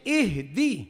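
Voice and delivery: اہدی ending in a clean long i; correct ihdi. Shown as a demonstration. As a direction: draw out اہدی, end on ee not e. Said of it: "ہاں اہدی لفظ ہے".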